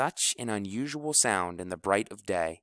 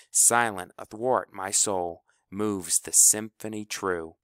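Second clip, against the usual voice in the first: poem reading. A narrator's reading. House reads the Whitman poem to the kids, measured recital. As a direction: recite the verse with care. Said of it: "he read them the poem".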